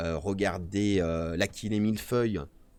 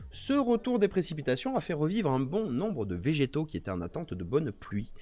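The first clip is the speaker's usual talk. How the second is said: mock reading; 4 semitones higher than usual. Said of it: "attention, vous allez voir".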